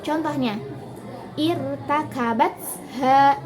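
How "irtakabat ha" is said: irtakabat ha with BAT drawn out and stressed; slow it down and lean on the syllable "bat" in irtakabat. Shown as a demonstration. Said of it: "tekanannya berada pada kata bats".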